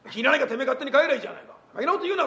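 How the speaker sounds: a hammed-up senior's quick scolding; mock angry retort. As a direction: snap back at a cheeky junior. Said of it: "これが普通だな".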